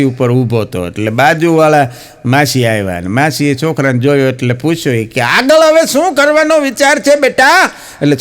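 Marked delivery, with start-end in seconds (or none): 5.2-7.7 sweet auntie. Retold or imitated. Neighbour auntie asks the boy.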